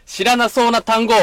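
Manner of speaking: slow, showy corner announcement; announcer voice. Acted. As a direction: announce it like a radio host.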